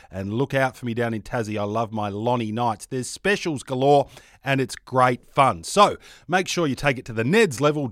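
brisk sponsor read; host reading the betting app ad. Acted. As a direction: sell it like a radio spot.

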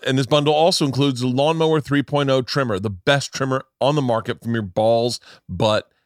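punchy, emphatic sponsor pitch; ad read. Acted. Podcast host plugging the grooming sponsor, emphatic ad read. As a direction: sell it like a hyped podcast host.

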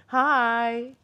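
high, loud put-on German greeting; hammed-up German accent; mock German hello. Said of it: "Is that how you say it in German?".

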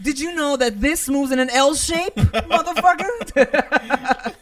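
high, loud mocking put-on voice; mock condescending voice. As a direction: talk down like a smug know-it-all. Mocking someone at checkers.

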